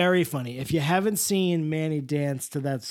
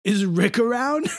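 Mister Oleander; 5 semitones higher than usual. Pretend. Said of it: "as Mister Oleander".

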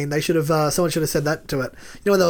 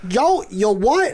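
slow, higher mock Greek accent; Mary; 4 semitones higher, much slower than usual. Announcing pillow colours as last season's housemate, Greek accent. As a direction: draw it out in a put-on Greek accent. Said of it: "accent was offensive".

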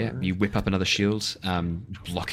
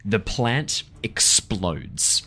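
dramatic narration; slower than usual. Acted. GM narrates plant exploding.

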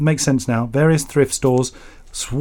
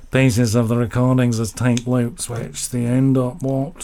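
mock English Midlands accent. Host reading out a listener's letter, mock Midlands accent. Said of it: "send up accents of the, uh, middle of the U K".

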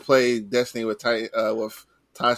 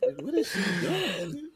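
laughing; 9 semitones higher, 4 dB quieter than usual. Real, not acted. Laughing while retelling.

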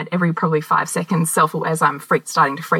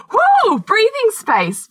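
relieved exhale; 4 dB louder, much slower than usual. Retold or imitated. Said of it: "I could go".

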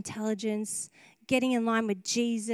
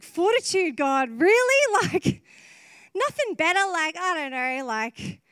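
incredulous complaint; 6 semitones higher, 5 dB louder than usual. Retold or imitated. Preacher retelling her reply to God's chosen word, incredulous. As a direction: act out a doubtful, let-down reply. Acts out disappointed reply to God.

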